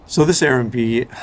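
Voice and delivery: slow retake with numb lips; slowly forcing words past cold lips. Real, not acted. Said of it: "my lips are frozen".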